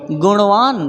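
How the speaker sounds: गुणवान as "guṇvaan", curled-tongue ṇ; touch the roof of the mouth on the ण of गुणवान; retroflex ण. Shown as a demonstration. Teacher models गुणवान for learners, retroflex ṇ. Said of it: "क्या बोलेंगे?".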